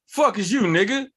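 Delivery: lightly hammed-up gruff brush-off of a newcomer; abrasive drunk uncle. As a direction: play a drunk uncle challenging someone. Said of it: "loud, abrasive, drunk uncle energy".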